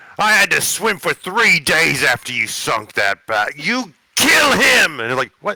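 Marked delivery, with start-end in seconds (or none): 3.6-5.0 very high, squeaky yell with breaking voice. Retelling a scene, acting out the guy who yells from the back, retelling a voice-cracking shout. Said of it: "That voice crack made it so much better".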